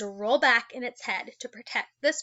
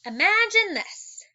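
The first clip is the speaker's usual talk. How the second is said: dramatic setup; 9 semitones higher, 5 dB louder, slower than usual. Acted. Dramatic opening of a shark scene.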